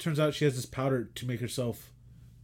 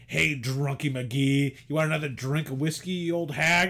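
mocking cruel husband; 2 semitones higher, 4 dB louder than usual. Husband mocking drunk wife in story.

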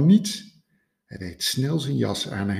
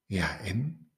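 unbothered shrug; 7 dB quieter than usual. Acted. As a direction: shrug it off lazily. Egel shrugs it off.

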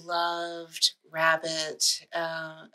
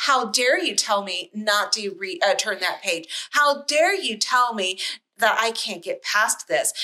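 mock outrage; 2 semitones higher than usual. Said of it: "you're like".

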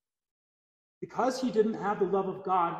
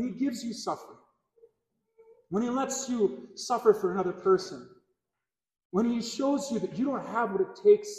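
insistent, raised-pitch sermon delivery; impassioned preaching; 4 semitones higher, 4 dB louder than usual. Real, not acted. Preacher telling believers only beggars go to heaven, impassioned preaching. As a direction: drive each phrase home to the congregation.

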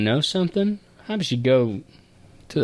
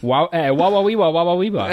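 higher mock Borat babble; Borat impression; 5 semitones higher than usual. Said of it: "You're not Borat".

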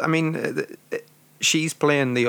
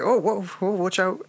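cartoon sidekick; 8 semitones higher than usual. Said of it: "he's just like".

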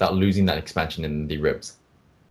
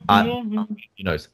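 very high, slow "Uh", nasal; demonstrating nasal sound; 14 semitones higher, much slower than usual. Shown as a demonstration. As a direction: hold a high nasal "Uh" slowly. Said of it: "That one's coming out of your nose".

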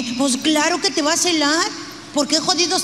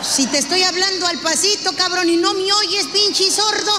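scolding; 4 semitones higher than usual. Retold or imitated. Wife scolds deaf husband.

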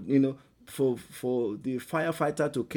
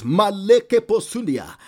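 speaking in tongues; 4 semitones higher, 11 dB louder, slower than usual. Acted. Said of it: "If you can speak in tongues".

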